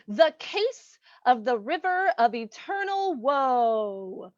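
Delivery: slow, drawn-out episode announcement; mock-ominous title. Host announcing the episode to listeners, mock ominous. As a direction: stretch the title out with melodrama.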